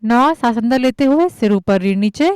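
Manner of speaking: measured count-led cueing with long pauses; yoga instruction. Acted. Yoga teacher guiding students breath by breath, measured instruction. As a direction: call out each movement evenly, step by step.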